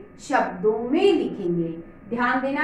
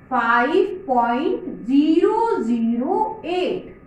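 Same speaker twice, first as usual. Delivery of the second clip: slow, each digit set apart; slow demo reading; slower than usual. Shown as a demonstration. Teacher modelling the answer for children, slowly. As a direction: read five point zero zero eight slowly, digit by digit. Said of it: "इसे क्या पढ़ोगे?".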